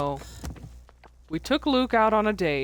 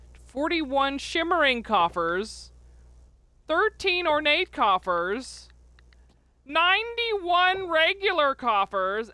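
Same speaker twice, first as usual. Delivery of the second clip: stretched, building to a higher pitch; excited tallying; 6 semitones higher, slower than usual. Real, not acted. Player tallying the coffer haul for viewers, building excitement. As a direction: read out each count slower and prouder.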